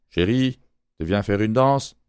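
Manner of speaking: lightly put-on Quebec French accent. Host playing a Quebec lover, in a mild Quebec accent. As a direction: ask for a dance in a light Québécois accent. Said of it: "Avec mon superbe accent québécois".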